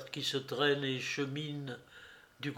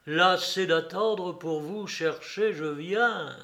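cavernous voice. Acted. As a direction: rasp it out like a dead man from the tomb. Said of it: "faire râler ces mots d'une voix caverneuse".

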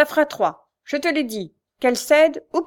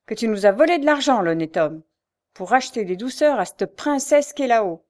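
loud, higher furious cry; angry outcry; 3 semitones higher, 7 dB louder than usual. A narrator's reading. Mother accuses her son of stealing, loud angry cry. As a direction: hurl the accusation at him. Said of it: "s'écria-t-elle".

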